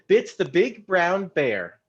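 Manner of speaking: slow enunciation. Shown as a demonstration. Teacher demos tongue twister slowly.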